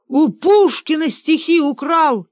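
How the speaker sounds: high, loud indignant shout; крикнул. A narrator's reading. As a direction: yell the accusation to fire himself up. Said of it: "крикнул тоже Бенедикт". (высокий громкий возмущённый крик)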